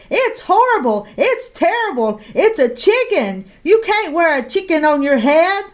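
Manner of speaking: high, outraged bellow building down. Acted. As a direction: pile on the insults. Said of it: "bellowed Missus McSnoot".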